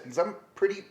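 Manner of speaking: high, loud and furious, half laughing; loud mocking tantrum, a touch of laughter; furious mock rant. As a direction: rant it like a pretty princess throwing a fit. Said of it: "I'm, like, furious".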